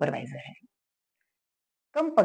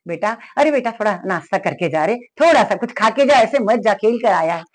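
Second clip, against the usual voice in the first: lovingly; 3 dB louder than usual. Retold or imitated. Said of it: "माँ ने प्यार से बोला".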